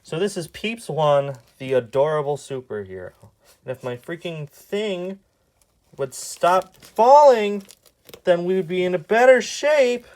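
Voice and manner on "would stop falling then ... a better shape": exasperated. Real, not acted. Annoyed at slipping device.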